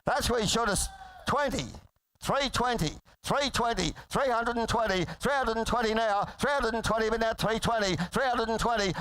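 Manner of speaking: rapid rolling auctioneer chant; frantic trading floor shouting. Real, not acted. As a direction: rattle off the bids like an auctioneer. Auctioneer calling bids.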